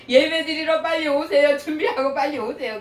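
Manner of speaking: mock call to come to worship; retold calling out. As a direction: imitate hurrying the household along. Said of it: "이렇게 소리 지르고".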